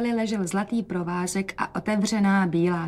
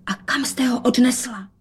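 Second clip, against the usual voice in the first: hushed urgent whisper; 4 semitones higher than usual. Acted. Rozetka whispers asking where mother took the cat. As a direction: ask it in a secret whisper. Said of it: "dodala šeptem".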